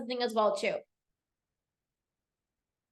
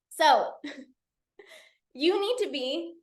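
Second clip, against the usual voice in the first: laughing; 2 semitones higher than usual. Real, not acted.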